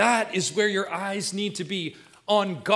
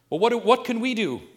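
higher, louder voice of a questioner; questioning listener; 5 semitones higher, 5 dB louder than usual. Acted. Preacher voices the doubting flock asking what to do, questioning. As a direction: put the congregation's question, raised and insistent. Voicing the congregation's worried question.

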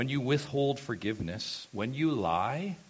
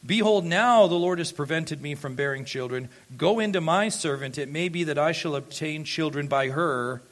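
a touch louder, Sarai pleading with her husband; lightly voiced wife urging Abram; voicing Sarai; 2 semitones higher, 4 dB louder than usual. Sarai pressing her husband Abram, mildly voiced plea. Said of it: "this is the voice of his wife".

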